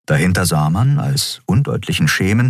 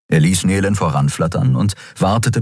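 ordinary delivery, nothing marked

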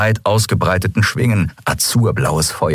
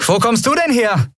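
high, bright call across the yard. Acted. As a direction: call out to him as he lands. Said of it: "rief Endriel". (laut und hoch hinübergerufen)

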